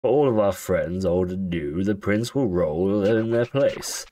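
lightly voiced royal narrator; grand king voice. Reading the King's text aloud.

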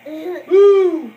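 loud, high whoop of triumph; a big victorious woo; cheering whoop. Real, not acted. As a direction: celebrate finishing the set. Cheering at end of set.

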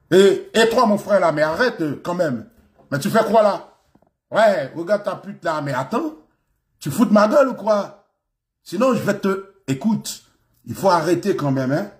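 mock Paris street French, confrontational; verlan street French. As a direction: act out a street-slang French challenge. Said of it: "Ça, c'est, c'est ça, relais, euh, Verlaine". (français de la rue, façon verlan, provocateur)

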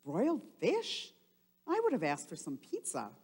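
lightly voiced kid, quick; a hint of a cheeky boy; cartoon boy. Cartoon twin Otto joking about pizza, lightly voiced. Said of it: "Otto says".

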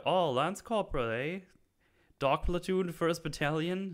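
high-pitched imitation of a Scottish soldier; lightly put-on Scottish accent, questioning upward. Fellow soldier quizzing the Lance Corporal on his unit, mock Scottish accent. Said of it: "is that your best Scottish accent".

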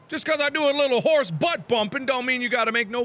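high, indignant cartoon voice; high silly voice. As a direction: play the offended horse. Voicing a horse's complaint.

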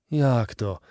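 ordinary delivery, nothing marked

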